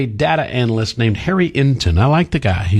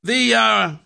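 mocking impression; 6 semitones higher than usual. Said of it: "and they go".

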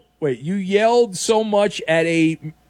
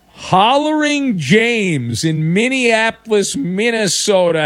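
drawn-out announcer intro; 4 semitones higher, slower than usual. Acted. Radio host announcing a caller.

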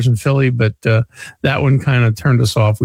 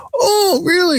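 high, exaggerated Italian car dealer voice; Italian accent; slower than usual. Car dealer answers the caller, in a heavy Italian accent. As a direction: mimic the Philly dealer's thick Italian accent. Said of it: "very heavy Italian accent".

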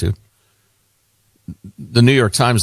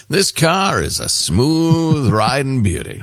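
slow mock used-car pitch, vowels stretched; car salesman; slower than usual. Host improvising a used-car ad, hammed-up pitch. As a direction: sell it like a hokey local car ad.

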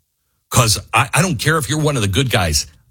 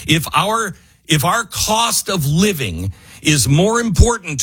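frustrated yelling; 5 semitones higher than usual. Real, not acted. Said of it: "I don't mean to yell at you".

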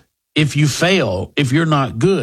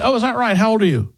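higher, mock-surprised "oh, is that right"; sarcastic disbelief; 9 semitones higher, faster than usual. Host to fired drunk employee, sarcastic mock surprise. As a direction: feign interest, pitched up and needling.

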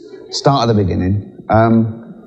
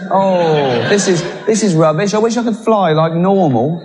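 high, whiny put-upon snake; a snake grumbling about its punishment, high; mock sulky snake, high and laughing; 8 semitones higher than usual. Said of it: "Stand there going".

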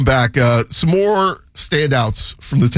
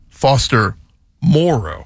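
"Moreau" with the emphasis on "More", not the O; stress on first syllable; slower than usual. Shown as a demonstration. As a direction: lean on the first half of "Moreau", let the O fall away. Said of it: "the emphasis on more, not the O".

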